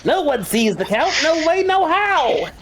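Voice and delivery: a high, hammed-up doorman turning you away; Wizard of Oz doorman. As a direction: bellow the refusal like the Oz gatekeeper. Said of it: "Just like the fucking, uh, guy at the door".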